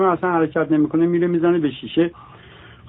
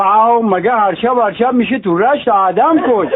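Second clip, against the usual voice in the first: laughing punchline; 4 semitones higher than usual. Acted. Rashti man's reply, laughing.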